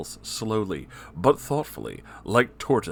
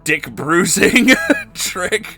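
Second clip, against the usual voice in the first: higher, louder salesman pitch; sleazy villain voice; 8 semitones higher, 4 dB louder than usual. Acted. Spamton boasting his comeback to viewers, high sleazy salesman voice. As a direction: hawk it like a crooked salesman.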